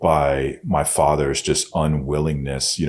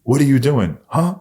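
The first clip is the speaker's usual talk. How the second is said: raised, higher call across the yard; repeating the shout across the yard, more insistent; louder call across yard; 10 semitones higher, 5 dB louder than usual. Retold or imitated. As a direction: call out to dad again, louder. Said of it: "yelled across the yard".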